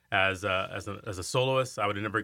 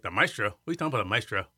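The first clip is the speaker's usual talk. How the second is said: baffled; faster than usual. Retold or imitated. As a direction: replay his own confusion, pitching it up. Baffled retold reply.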